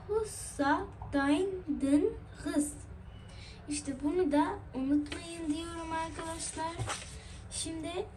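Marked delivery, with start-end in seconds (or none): 0.1-2.7 spelled out slowly, syllable by syllable; slow mnemonic. Shown as a demonstration. Teacher giving students a memory phrase, slowly. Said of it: "şifresi var".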